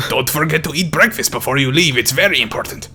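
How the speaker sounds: lightly voiced caring character; Kabu. Character sending a listener off to work, lightly voiced. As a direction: remind someone in a slightly put-on character voice. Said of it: "I just want Kabu to tell me".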